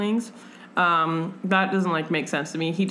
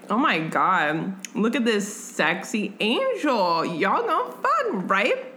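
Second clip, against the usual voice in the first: teasing friend; 4 semitones higher, slower than usual. Retold or imitated. Susanna voiced in retelling.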